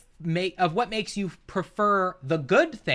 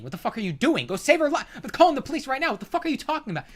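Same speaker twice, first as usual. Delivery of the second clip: outraged yell; 8 semitones higher, much faster than usual. Pretend. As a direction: shout at him to go save her. Imagined outraged bystander.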